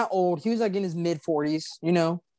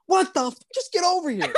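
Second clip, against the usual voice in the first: high-pitched mock exasperation; exasperated outburst; 12 semitones higher than usual. Caller to 911 operator wanting help now, mock exasperated. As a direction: act out losing patience in disbelief.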